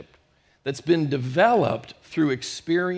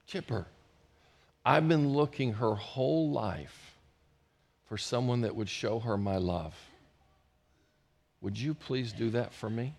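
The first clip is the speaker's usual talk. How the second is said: little voice; 4 semitones lower, 6 dB quieter than usual. Retold or imitated. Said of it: "this little voice".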